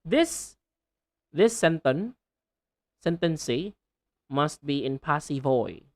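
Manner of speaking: final sounds left off sentence, passive and voice; halting "sentence", "passive", "voice" without their last consonants; learner's error, endings swallowed; dropped endings. Shown as a demonstration. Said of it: "So you should say".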